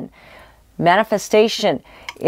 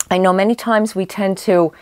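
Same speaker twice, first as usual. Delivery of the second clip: hoarse voice. Real, not acted. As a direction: voice going hoarse, a bit strained. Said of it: "I'm losing my voice".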